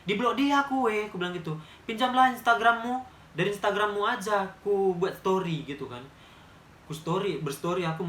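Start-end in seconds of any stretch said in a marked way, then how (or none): 0.0-1.1 louder and higher, annoyed that she was blocked; angry complaint. Retold or imitated. Telling a friend she was blocked, angry and loud. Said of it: "Murka aku". 1.9-5.6 louder and higher, annoyed that she was blocked; angry complaint. Retold or imitated. Telling a friend she was blocked, angry and loud. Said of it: "Murka aku".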